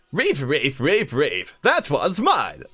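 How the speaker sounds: light, slow mock Canadian accent on reef; a half-hearted Canadian stab meant as BBC English; South Park Canadian accent. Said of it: "South Park Canadian".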